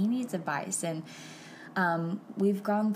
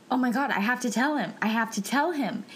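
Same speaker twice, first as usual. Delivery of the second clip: urgent realization; 5 semitones higher than usual. Retold or imitated. Sudden urge to tell her dad.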